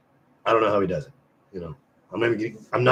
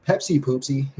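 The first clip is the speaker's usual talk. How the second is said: silly voice; 4 semitones higher than usual. Pretend. Silly burp excuse.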